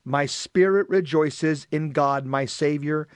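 measured, projected scripture reading; solemn read-aloud with pauses between phrases; gospel reading. Acted. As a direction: proclaim the reading to a congregation. Reads and concludes the gospel.

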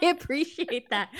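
laughing through the thanks; amused chuckle on the words. Real, not acted. Laughing while answering host.

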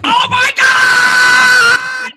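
high drawn-out screaming rant; Sam Kinison scream. Retold or imitated. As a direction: scream till the voice breaks. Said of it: "the speaker doing Sam Kinison doing the guy from".

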